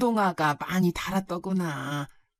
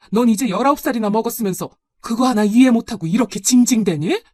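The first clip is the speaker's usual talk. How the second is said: louder, exasperated telling-off; angry scolding; 2 semitones higher, 6 dB louder than usual. Acted. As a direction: scold him as if fed up. Mother scolds son in quarrel. (짜증 섞어 꾸짖는 말투)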